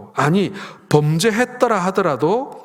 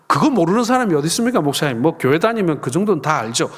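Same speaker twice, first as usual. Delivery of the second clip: imagined objection. Retold or imitated.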